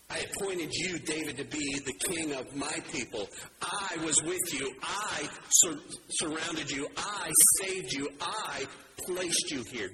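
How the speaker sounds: slow down and stress every "I"; God's promises with "I" stressed; emphasis on I. Shown as a demonstration. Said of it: "Notice where the emphasis is here".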